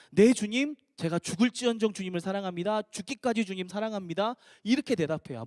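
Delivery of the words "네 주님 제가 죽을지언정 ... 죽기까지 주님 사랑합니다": all-out vow. Shown as a demonstration. Peter in his usual style vowing love, all-out and eager. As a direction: pledge love with no holding back. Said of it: "중간 없이 이렇게 달려야 베드로다운".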